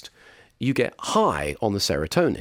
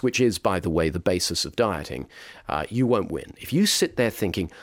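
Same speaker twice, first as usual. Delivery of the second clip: normal talking voice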